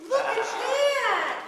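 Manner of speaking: loud, slow, laughing exclaim; excited laughing. Real, not acted. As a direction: burst out with delighted surprise. Delight at the child's sheep.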